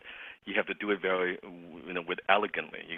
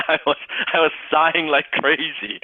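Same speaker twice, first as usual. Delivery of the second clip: laughing through the words, pitched up; amused; 7 semitones higher, 3 dB louder than usual. Real, not acted. Coach telling the group about his own call, amused. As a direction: tell it with a chuckle.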